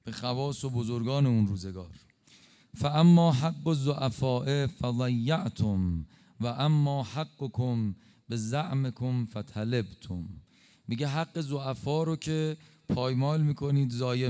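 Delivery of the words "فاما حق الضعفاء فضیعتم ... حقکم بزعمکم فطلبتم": very slow, measured Arabic quotation; Arabic sermon recitation. Retold or imitated. Preacher quoting the Imam's sermon to the elite, slow recitation. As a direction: intone the Imam's words slowly, weighing each one.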